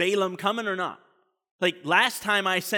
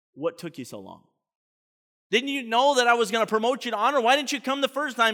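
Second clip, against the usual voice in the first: play-acted, light, mild berating tone; 4 semitones higher than usual. Speaker retelling one biblical figure berating another, mock-berating. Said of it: "he kind of berates him".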